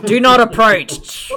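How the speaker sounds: loud, drawn-out mock warning; slowly and forcefully warn them off; angry warning. Warning people off like a rattlesnake, mock-angry. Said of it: "a rattling sound to warn people".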